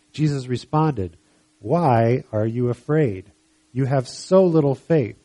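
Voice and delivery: slow, weighted Bible reading; scripture reading. Acted. Jesus answering the frightened disciples, slow measured scripture reading. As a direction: read the reproach out deliberately.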